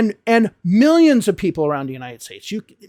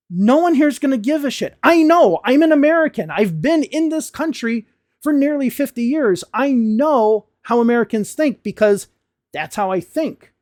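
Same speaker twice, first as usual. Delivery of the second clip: higher-pitched, impassioned insistence; emphatic insistence; 5 semitones higher than usual. Real, not acted. American teacher reassuring learners about accents, emphatically insistent. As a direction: insist from experience, voice pushed up high. Insisting from own lifelong experience.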